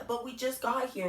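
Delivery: put-on boy objecting to leaving; lightly voiced young son complaining; child protesting.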